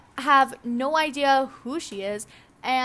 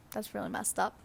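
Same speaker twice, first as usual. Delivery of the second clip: ordinary talk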